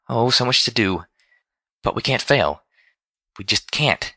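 fretting. A narrator's reading. Fluttershy alone before the trip, fretting. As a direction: fret to yourself in short bursts. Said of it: "she fretted".

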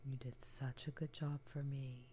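tender comforting whisper close to the ear; ASMR whisper. Acted. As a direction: soothe a trembling partner in a hushed whisper. Comforting partner whispered throughout.

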